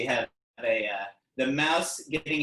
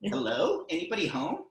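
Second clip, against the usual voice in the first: higher calling voice, asking who's home; 5 semitones higher than usual. Acted. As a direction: call out higher, like a curious kangaroo. Kangaroo calls at the object.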